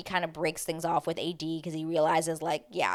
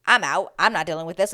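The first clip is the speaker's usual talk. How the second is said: fed-up quote; 8 dB louder than usual. Retold or imitated. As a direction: announce she is done with it, loudly. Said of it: "And Amanda's like".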